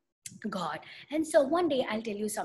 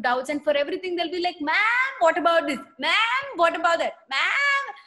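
pestering student; 3 dB louder than usual. Pretend. Teacher mimics the classroom kid with endless doubts, pestering. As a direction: nag the teacher over and over, climbing up.

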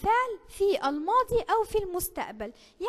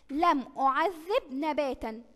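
slow example reading; slower than usual. Shown as a demonstration. Quiz example read slowly.

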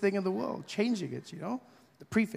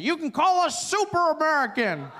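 higher, brighter call from the crowd; shouted suggestion; 8 semitones higher, 3 dB louder than usual. Retold or imitated. A Southern gentleman shouts his suggestion, loud and high. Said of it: "a gentleman shouted out".

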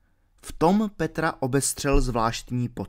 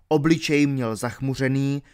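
usual speaking voice

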